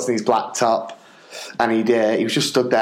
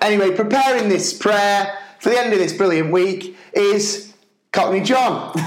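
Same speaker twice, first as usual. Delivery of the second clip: lightly put-on presenter, pitched up; assembly announcer; 7 semitones higher than usual. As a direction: announce the speaker with a build to the name. Announcing the surprise prayer speaker.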